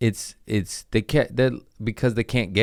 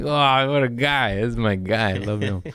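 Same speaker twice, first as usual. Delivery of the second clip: mock adoring; 3 semitones higher than usual. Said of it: "I get emotional thinking of Gandalf".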